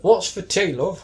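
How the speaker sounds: high, cheery put-on voice asking what's for tea; lightly voiced housewife calling love; mock homely cook. Joking about the zombie's cooking, mock homely cook.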